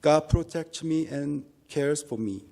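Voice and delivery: normal talking voice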